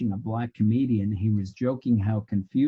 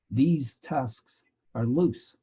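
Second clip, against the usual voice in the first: quoting the woman, each word slowed right down; slow, drawn-out quote; 2 semitones higher, much slower than usual. Shown as a demonstration. Teacher telling a bar story to his class, quotes the setup line slowly. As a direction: let "These tusks are loose" hang, slow and deliberate. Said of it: "That's my setup line".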